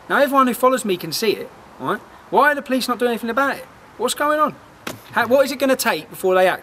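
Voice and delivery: furious at the police, pitch climbing; frustrated outcry. Real, not acted. Angry about police inaction.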